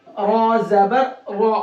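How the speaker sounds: slow spelling-out with a full, heavy "रॉ". Shown as a demonstration. Teacher showing students the example, heavy Ra. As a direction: draw out "रॉ" with a thick, rounded R. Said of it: "मोटा करके पढ़ेंगे".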